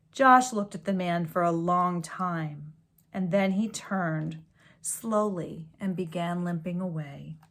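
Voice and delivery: gentle storybook read-aloud; story reading. A narrator's reading. Reading a picture book to children, storybook voice. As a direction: read it like a bedtime story to kids.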